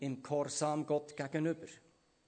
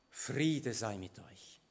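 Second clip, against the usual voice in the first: gentle greeting; 4 semitones lower, much slower than usual. Acted. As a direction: give peace slowly, tenderly. Risen Jesus greets disciples. (langsam und sanft gesprochener Friedensgruss)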